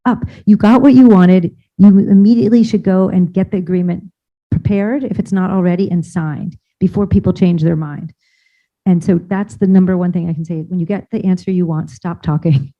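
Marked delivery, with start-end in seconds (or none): 0.0-8.1 exasperated shut up. Retold or imitated. To people who keep talking after yes, impatient. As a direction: cut them off, you've already won. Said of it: "people keep talking and I'm like".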